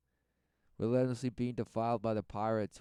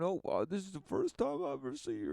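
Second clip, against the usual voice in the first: mock sarcastic; 7 semitones higher, 4 dB louder, faster than usual. Sarcastic acted quote.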